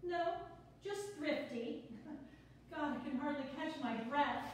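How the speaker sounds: quick, bubbly, a little flustered; nervous newcomer rattling on; nervous chatty woman. Acted. Sonia flustered, laughing.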